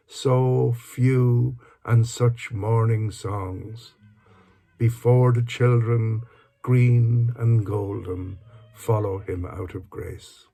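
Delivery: measured, lilting poetry reading; poem recitation. Acted. Speaker reads a favourite Dylan Thomas poem aloud, measured recitation. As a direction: recite it in sustained phrases, pausing between lines.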